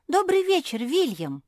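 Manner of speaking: high, loud happy hello; delighted greeting. A narrator's reading. Pug Josie happily greets the bat William. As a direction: greet a friend with joy. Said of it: "обрадовалась Жози".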